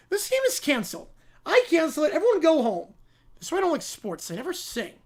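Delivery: put-on high pouting kid; bratty child. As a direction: stomp off like a spoiled child. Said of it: "the Brat Pack".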